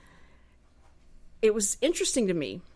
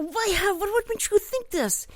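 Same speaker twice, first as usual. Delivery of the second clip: much higher, squeaky mock bewilderment; generals asking; 11 semitones higher than usual. Generals ask Putin why, in a high comic squeak. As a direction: play the baffled officers in a high voice. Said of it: "And they go".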